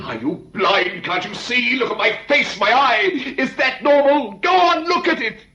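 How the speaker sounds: high, anguished demand; angry outburst. Acted. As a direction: confront him, voice rising. Patient confronts doctor over face.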